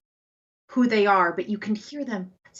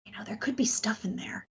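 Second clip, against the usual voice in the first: whispering; 6 dB quieter than usual. Acted. GM voicing Ransom, hushed.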